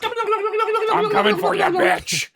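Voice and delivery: high, drawn-out turkey threat; turkey villain voice. Retold or imitated. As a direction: do a silly high-pitched killer turkey. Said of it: "I was making turkey sounds".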